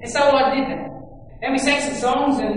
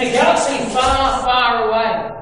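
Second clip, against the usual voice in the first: grand, louder movie-opening delivery; Star Wars opening; 5 dB louder than usual. Retold or imitated. Preacher quoting Star Wars to church, grand opening style. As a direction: announce it like an epic film opener. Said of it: "I love how Star Wars says it".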